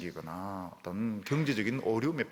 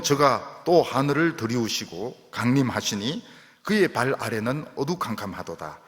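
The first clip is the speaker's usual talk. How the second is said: scripture reading; 4 dB louder than usual. Acted. Reads the psalm aloud.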